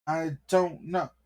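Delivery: a scared cop's voice cracking up high; cowering cop. Acted. Cop answering the angry mayor, squeaking in fear.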